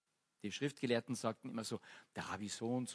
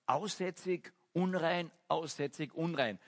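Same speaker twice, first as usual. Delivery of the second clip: raised, higher cry of unclean; calling out a warning; 5 semitones higher, slower than usual. Retold or imitated. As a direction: call it out from afar like a leper. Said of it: "von weitem schon schreien".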